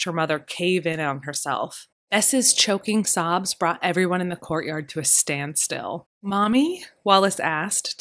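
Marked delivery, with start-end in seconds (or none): 6.2-6.8 terrified. Acted.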